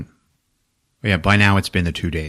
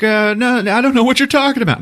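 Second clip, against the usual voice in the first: high, rushed babble; hammed-up frantic pleading; acted panicked denial; 4 dB louder than usual. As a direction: deny it fast under interrogation. Interrogated man denies knowing.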